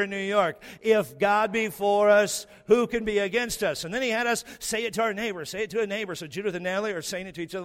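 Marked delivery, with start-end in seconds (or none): 0.8-3.8 louder and slower, like a brash New Yorker. Shown as a demonstration. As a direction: belt it out the way New Yorkers would. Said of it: "Say it like you're an arrogant New Yorker".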